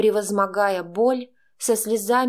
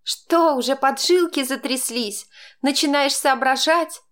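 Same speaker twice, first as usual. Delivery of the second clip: mocking cackle; 5 semitones higher, 3 dB louder than usual. A narrator's reading. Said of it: "захохотала я".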